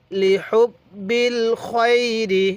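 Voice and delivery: slow, drawn-out recitation, "খয়রি" as "khoi-ri"; correct khoiri. Shown as a demonstration. Teacher modelling the correction for learners, slow rounded "khoi" in "খয়রি". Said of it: "এরকমভাবে শিখব".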